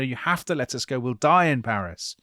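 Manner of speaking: mildly urgent retold plea; a touch of desperation, argued quickly; desperate pleading. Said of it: "they're desperately arguing with them".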